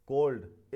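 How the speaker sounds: कोल्ड as one single beat. Shown as a demonstration. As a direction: say कोल्ड in one unbroken syllable. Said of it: "एक ही बार में बोल दिया". (कोल्ड एक ही बार में)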